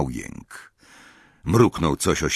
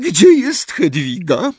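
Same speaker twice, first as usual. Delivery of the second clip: gentle question; 5 dB louder, slower than usual. Acted. Mrs Weasley gently asks Harry about Hedwig, coaxing and high. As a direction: ask gently, tiptoeing around grief. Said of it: "zapytała łagodnie".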